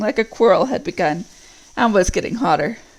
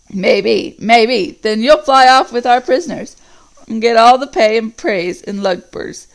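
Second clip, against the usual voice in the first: louder, mocking orc; scornful orc; 4 dB louder than usual. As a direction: sneer at the plan to fly off. Orc argues against the plan.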